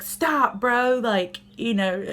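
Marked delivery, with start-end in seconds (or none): 0.0-1.0 sharp, higher and louder "Stop, bro"; abrupt stop. Retold or imitated. Fed-up mom telling crying son to stop, abrupt and loud. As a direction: cut him off abruptly. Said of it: "just abruptly".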